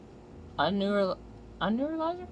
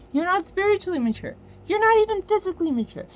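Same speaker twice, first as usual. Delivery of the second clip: building higher and louder, faster; heated rant; 10 semitones higher, 6 dB louder, faster than usual. Real, not acted. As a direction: escalate each line, pushing pitch up.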